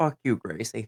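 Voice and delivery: muttered under breath. A character looks up at the stars and mutters under her breath. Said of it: "under her breath".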